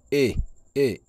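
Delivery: E, E falling from high; two short falling E sounds; fourth and fifth tones. Shown as a demonstration. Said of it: "le quatrième".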